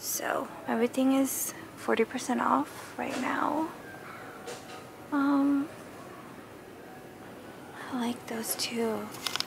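soft, quiet whisper.

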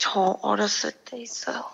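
eerie, low ghostly voice. Child answering a host's question about seeing ghosts, ghostly voice. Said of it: "지금 얘가 귀신 목소리인데".

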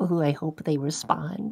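timid, meek, soft, hopeful little voice. Mocking men who won't talk to women, imitating a meek voice. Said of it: "It's just like a meek".

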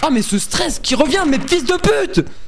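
very high, shrill, carried-away, losing-control outburst. A streamer playing a game as the stress returns, carried-away outburst. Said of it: "je me suis emporté".

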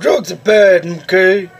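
slow, drawn-out, lecturing cartoon voice. Speaker recalls talking at Taco Bell in a video; Mr. Mackey voice. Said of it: "talk like, uh, Mr. Mackey from, uh, South Park".

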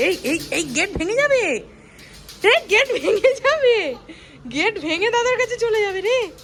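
high, laughing, playful, teasing tone.

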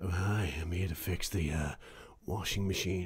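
low, put-on sleazy voice. Joking about having just sounded sleazy: put-on sleazy voice. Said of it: "That was proper sleazy".

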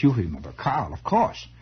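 put-on slight, vague German accent. Retelling a woman introducing her husband, in a vague German accent. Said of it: "they all had this vague German accent".

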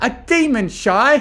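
very high excited exclamation. Rainbow to Shy about Barry; exclaiming excitedly. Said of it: "Rainbow exclaimed excitedly".

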